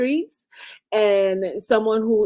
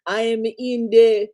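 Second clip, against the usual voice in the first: mock whiny child; slower than usual. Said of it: "you call me and say".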